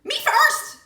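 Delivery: loud high shout; crying out. A narrator's reading. Piglet yelling to be first in line. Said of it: "he cried".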